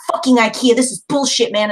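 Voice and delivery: mild mock yell at furniture; retold yelling. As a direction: act out yelling in frustration, without full volume. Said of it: "I'm just yelling".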